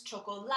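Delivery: chocolate said the Spanish way, choco-LA-te with the last part stressed. Shown as a demonstration. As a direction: end on a stressed, sounded final e in chocolate. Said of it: "we emphasize the last part of it".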